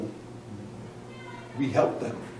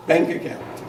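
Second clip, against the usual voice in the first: mock whisper; 4 semitones higher than usual. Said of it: "I know sometimes we say".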